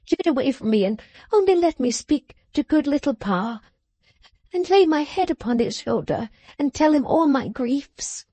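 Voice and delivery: put-on a young woman begging her father's comfort; tearful pleading. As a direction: beg as if your heart will break. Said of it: "in an incoherent passion of tears".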